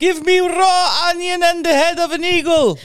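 high, loud put-on voice; loud cartoonish declaration; hammed-up all-American persona. Continues the Kevin bit.

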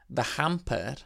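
Welsh accent. Shown as a demonstration. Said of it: "I put a Welsh accent on that when it's English".

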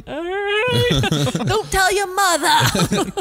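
squeaky voice breaking into laughter; laughing while talking. Retold or imitated. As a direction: laugh through the words. Quote with crying laughter.

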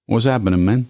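a mock Brooklyn Spanish greeting, playful; lightly put-on Brooklyn Spanish; joking Brooklyn Spanish hello. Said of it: "that's a Brooklyn Spanish".

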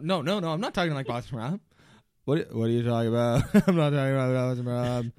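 a lightly voiced Boston accent, laughing denial; Boston Rob impression. Accused of sounding like Rob, a laughing Boston Rob voice. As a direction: deny it while slipping into his voice.

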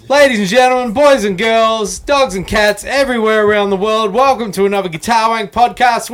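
ringmaster. Acted. Podcast host opening the show.

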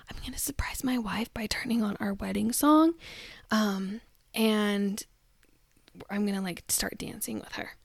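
husband's staged surprise plan, mockingly whispered; mock whisper. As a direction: hush it like a secret plan.

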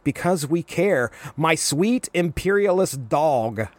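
a hint of a sweetly condescending reply; slow, mock tender insult; lightly voiced Linka twisting the knife; slow sweet jab. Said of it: "Linka's like".

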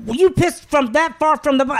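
high-pitched imitation of disbelief; mock an astonished accusation; incredulous mimicry. Girl confronts him in retold story, mock incredulous. Acts out the girl's shocked reaction.

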